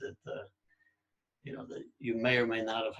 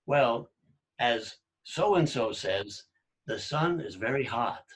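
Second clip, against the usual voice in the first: mock academic; 4 dB louder, slower than usual. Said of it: "you have to say".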